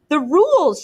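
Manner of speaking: loud high cry; shout. A narrator's reading. Ralph shouting the rules at Jack. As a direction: bark the word out. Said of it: "shouted Ralph".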